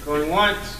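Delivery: mock auction call; going once, going twice, hammed up; auctioneer. Chair auctioneering the vote.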